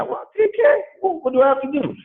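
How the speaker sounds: high astonished squeal; surprised. Retold or imitated. Prospect hears the three K goal, high astonished squeal. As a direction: squeak out the question in shock.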